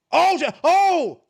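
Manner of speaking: loud, high, slow drawn-out oh; mock shock. Onlooker pretending to be shocked by the same dance move, loud drawn-out oh. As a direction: gasp it out like you can't believe it. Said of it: "act shocked every time".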